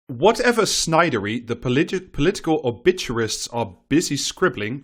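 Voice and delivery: lively, rhetorical reading voice; column read-aloud. Acted. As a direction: read the column out with swooping emphasis. Reads a newspaper column aloud.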